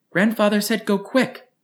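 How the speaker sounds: put-on high, firm child's command; a little girl laying down the law; no-debate order. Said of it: "in a voice that would brook no debate".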